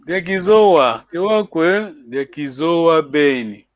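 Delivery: tune climbs on Diakizoa and Kewakwe, drops on Ingeta and Diakizoa Ben; first line takes off upward, second line lands, slowing at the end; teacher shows the class the tune of question and answer, rising then falling; rise then land. Shown as a demonstration. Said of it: "you are taking off, ... you are landing".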